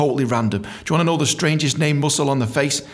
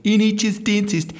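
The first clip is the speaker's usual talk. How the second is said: bad Australian accent, pitched up; fake Australian accent; 5 semitones higher than usual. Dentist handing out flyers, faking a bad Australian accent. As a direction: call out in a put-on Australian accent. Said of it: "I had to fake my own accent".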